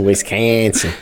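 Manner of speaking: low drawn Wisconsin in a mock Midwestern accent. Host mocking the guest's accent, Midwestern Wisconsin. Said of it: "the accent came out".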